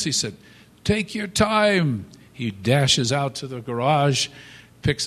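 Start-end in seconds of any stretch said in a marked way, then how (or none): 0.8-2.1 slow reply. Retold or imitated. Husband answering wife upstairs.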